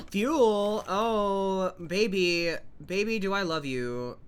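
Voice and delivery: playful lovestruck crooning to an item; mock lovestruck. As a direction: coo at it like a sweetheart, half-joking. Crooning lovingly to found fuel.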